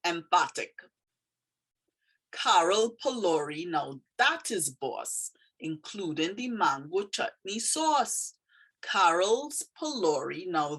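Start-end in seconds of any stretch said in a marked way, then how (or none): 2.3-8.3 lilting Trini dialect, slowing on the praise. Shown as a demonstration. Teacher reading a poem about Carol's food, in Trini dialect. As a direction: read it with a Trini lilt. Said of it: "is a very Trini phrase".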